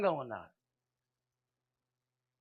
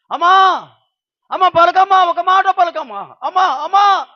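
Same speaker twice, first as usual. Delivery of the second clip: crying out; 10 semitones higher, 15 dB louder than usual. Acted. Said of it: "అని కేక వేస్తుంది".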